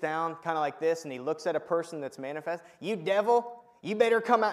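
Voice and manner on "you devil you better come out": put-on full-on, loud, high Southern accent. Retelling how a friend spoke to a manifesting person: imitating a Southern accent. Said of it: "he gets so Southern".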